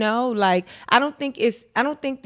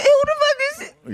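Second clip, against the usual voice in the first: higher, fast, near-crying outrage; mock frantic guy; 4 dB louder, much faster than usual. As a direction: fire it off twice as fast, frantic. Guy voiced repeats question.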